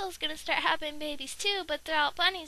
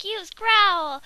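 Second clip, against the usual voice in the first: much louder command; battle command; 9 dB louder than usual. Pretend. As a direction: bark the move like a trainer. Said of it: "Conjo was like".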